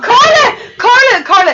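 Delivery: loud repeated call, pitch falling. Real, not acted. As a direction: call her name across the house. Calling out to Carla.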